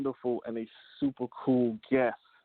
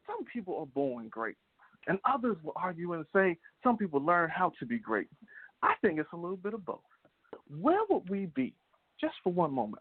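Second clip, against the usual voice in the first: raised pitch with dramatic pauses; motivational oratory; 6 semitones higher than usual. Acted. Host asking listeners to imagine life without parents, motivational oratory. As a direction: pose big questions to the crowd like an orator.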